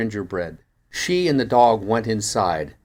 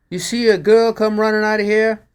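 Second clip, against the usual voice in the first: higher and louder, urgent shopkeeper; anxious shopkeeper; 11 semitones higher, 6 dB louder than usual. Acted. Robbed pawn shop owner asking the narrator, urgent and louder. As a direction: call it out like a robbed man.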